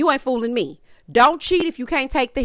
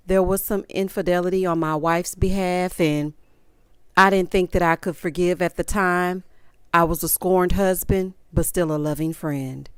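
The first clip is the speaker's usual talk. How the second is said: reading from a cue card; 4 semitones lower than usual. Retold or imitated. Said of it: "sounding like he's reading from a cue card".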